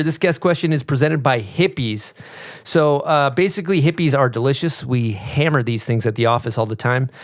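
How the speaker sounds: casual podcast sponsor read; conversational promo read, product names picked out. Real, not acted. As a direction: sell the snack in an easy host's read. Reads a sponsor ad.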